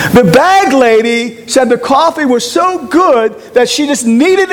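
fervent pulpit appeal; preaching. Acted. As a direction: press the congregation with each question. Preaching at full force.

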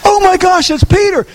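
high, breathless squeal of surprise; thrilled gasp of a girl who can't believe it; excited servant girl. Retold or imitated. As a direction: play the overjoyed servant girl at the door. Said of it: "opens the door a crack and goes".

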